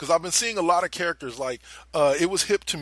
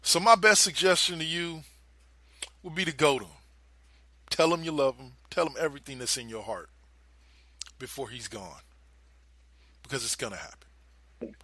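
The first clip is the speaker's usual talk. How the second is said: calm and cold. Retold or imitated. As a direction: calmly tell her it will happen, then let it hang. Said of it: "very calmly looks her in the eye and goes".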